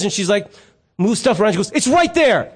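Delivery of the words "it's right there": high-pitched mock exasperation; exasperated wife. Wife has come downstairs to show husband, exasperated. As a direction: imitate a wife at the end of her patience. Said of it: "So then in exasperation".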